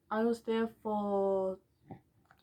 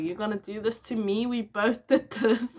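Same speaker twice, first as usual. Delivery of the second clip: retold upset retort; 2 semitones higher, 4 dB louder than usual. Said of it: "I was like".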